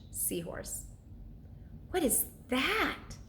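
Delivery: bedtime read-aloud with character voices; storyteller reading to children; story narration. A narrator's reading. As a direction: read it like a chapter book to kids at night. Reads chapter book aloud.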